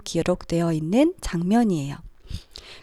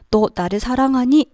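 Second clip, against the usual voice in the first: mock scolding; 3 semitones higher than usual. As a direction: question as if doubting and scolding, mildly. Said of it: "이렇게 혼내러 오신 것이 아니라".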